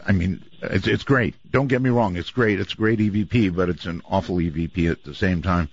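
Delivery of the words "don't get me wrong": normal talking voice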